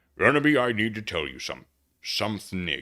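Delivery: very low, deep serious voice. Storyteller voices Hargrid arriving at the hospital bed with roses, very low voice. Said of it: "just go real low".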